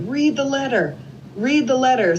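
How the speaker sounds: high-pitched, insistent imitation; retold urgent demand. Sister urging brother on speakerphone, excited demand. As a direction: re-enact an eager plea, repeated.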